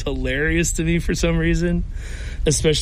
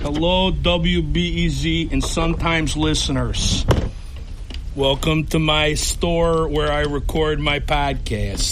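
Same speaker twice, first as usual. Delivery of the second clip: exaggerated Chicago accent; put-on classic Chicago accent. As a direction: greet listeners in a comic, blue-collar Chicago accent. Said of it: "in that Chicago accent".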